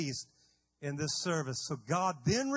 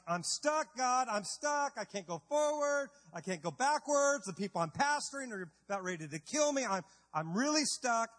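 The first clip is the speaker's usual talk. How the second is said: pleading Moses; 2 semitones higher than usual. Acted. Moses crying out to God, lightly voiced and pleading. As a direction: plead like a trapped leader.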